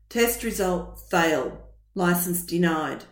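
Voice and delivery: low, slow, even machine readout; robotic message. Acted. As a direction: drop each word like a verdict. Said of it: "flashed a message from the testing centre".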